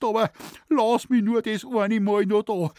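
retelling a man pleading for mercy; imitated begging. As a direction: beg in a thin, high whine. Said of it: "hat er geschluchzt".

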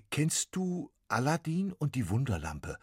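lightly voiced boy asking; a hint of a startled boy; boy Max, puzzled. Max asks ghost.

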